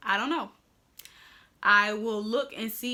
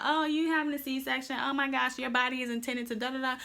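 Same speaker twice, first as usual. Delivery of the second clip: mocking critics; 4 semitones higher than usual. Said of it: "we get a lot of flack about".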